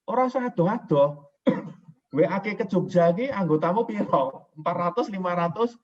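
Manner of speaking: mildly mock-lecture him in Javanese; retold advice to Pak Suhar. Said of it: "Saya udah bilang ke Pak Suhar".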